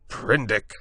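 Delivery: high, loud sharp call of his name; cried out. A narrator's reading. Moreau cries out Prendick's name to silence him. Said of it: "cried Moreau".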